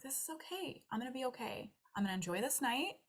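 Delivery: soft self-calming voice; calm reassuring self-talk. Retold or imitated. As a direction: soothe yourself quietly. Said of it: "you're like".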